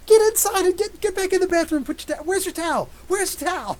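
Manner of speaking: put-on half-laughing panic at the wet kid; high frantic mock scolding; exasperated mom. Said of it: "I'm like".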